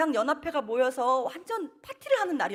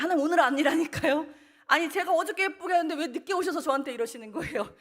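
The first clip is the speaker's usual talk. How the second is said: retold pleading; 6 semitones higher, 5 dB louder than usual. Pleading with God in retold prayer.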